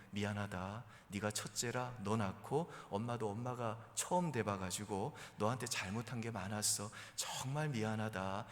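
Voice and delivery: low, sincere mother apologizing; heartfelt apology. Acted. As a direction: own up softly to your child. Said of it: "자신의 그 진심을 말하게 되고".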